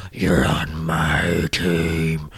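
very slow, low demon voice; menacing rival. Retold or imitated. Imitating the giant pinning him to the wall, low menace. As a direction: draw it out deep and threatening. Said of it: "Yeah, and goes".

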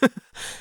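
short scoffing chuckle; a brief, breathy laugh. A narrator's reading. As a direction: let out a quick chuckle. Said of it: "Chapman laughed".

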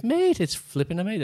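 high, loud British accent impression; hammed-up British accent, pitched right up; Paul McGee. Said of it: "Can you do it in his accent?".

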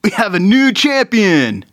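loud, high ring announcer call; crowning the chili champion into the mic, loud announcer cry; announcer shout. Acted. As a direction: boom it into the mic like an MC. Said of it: "he says into the mic".

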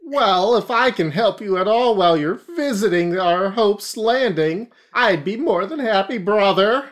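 high pious preacher voice; a high, kindly priest greeting; Armadillon. Acted. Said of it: "It's Father Armadillo Don now".

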